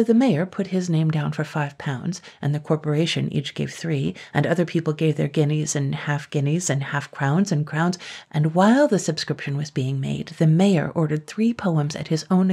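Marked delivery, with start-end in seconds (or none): none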